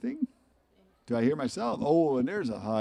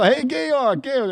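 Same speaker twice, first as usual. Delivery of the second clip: high playful call of Georg, much louder; calling the dog in German; 13 semitones higher, 10 dB louder, slower than usual. Retold or imitated. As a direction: call Georg across the room, gay-ork. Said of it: "I go".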